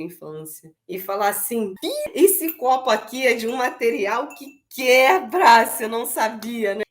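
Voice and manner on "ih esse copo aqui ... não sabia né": gentle playful tone. Shown as a demonstration. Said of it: "chegar com outro ritmo".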